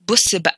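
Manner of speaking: "Busse ba" with a catch before the ba; Egyptian glottal stop. Shown as a demonstration. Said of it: "So I often hear Egyptians say".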